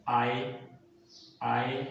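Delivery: "आई" as a glide from aa to ee; "आई" gliding between two vowel sounds; vowel glide demo. Shown as a demonstration. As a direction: say "आई" as a drawn A-to-I diphthong. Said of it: "sound आपने देनी है".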